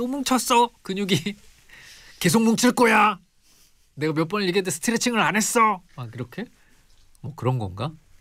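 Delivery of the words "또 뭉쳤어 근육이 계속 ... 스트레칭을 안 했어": very high, fed-up, angry scolding tone. Speaker wondering why the pharmacist always gets angry, imitating an angry pharmacist scolding. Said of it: "약사님 성대모사 하다가".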